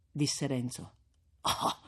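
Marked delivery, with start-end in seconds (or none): 1.4-1.8 sudden high, loud brisk reply; old priest's retort. A narrator's reading. Priest answering Renzo's forgiveness, brisk high retort. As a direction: brush the point aside quickly. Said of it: "rispose Don Abbondio".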